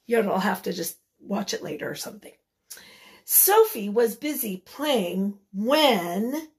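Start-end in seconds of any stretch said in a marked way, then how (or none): 3.2-6.5 slow, deliberate storybook reading. A narrator's reading. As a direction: read it out slowly to young children. Reads picture book to children.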